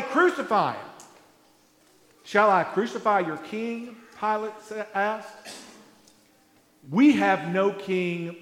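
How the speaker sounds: measured, solemn Bible reading; scripture reading. Acted. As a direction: read the passage to the congregation with gravity. Reads the Passion scripture aloud.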